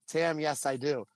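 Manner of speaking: put-on hesitant, caught-off-guard answer; freezing up. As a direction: stammer a mock nervous yes. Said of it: "everybody was, like, freezing".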